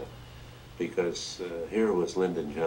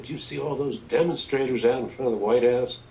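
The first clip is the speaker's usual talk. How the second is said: higher, louder coaxing Southern politician; lightly voiced Johnson; 6 semitones higher, 5 dB louder than usual. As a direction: play Johnson sweet-talking a guest.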